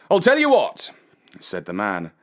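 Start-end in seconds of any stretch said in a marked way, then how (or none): 0.1-0.9 higher-pitched trader's voice; sly dog-owner. A narrator's reading. Man flatters boy about his sheep, higher character voice.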